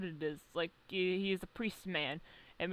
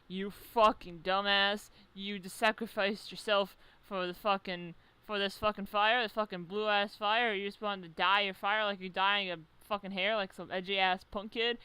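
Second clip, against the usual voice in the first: mock scolding; 4 dB louder than usual. Kusanagi clan scolding the rival.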